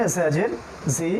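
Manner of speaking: "ঝা জের জি" slow, breath pushed through the teeth; airy z. Shown as a demonstration. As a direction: let the air hiss on "জি". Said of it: "বাতাসটা এখানে লাগবে". (বাতাস ছুঁইয়ে ধীরে "ঝা জের জি")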